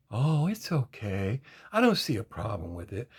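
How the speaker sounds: mock dismissive. Imitating women shrugging it off.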